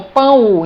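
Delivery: pão with the final O sounded as U; demonstrated pronunciation. Shown as a demonstration. Teacher showing the sound of letter O, pão ending in U. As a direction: say pão as "pãu", leaning on the U. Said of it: "o som emitido pela letra O".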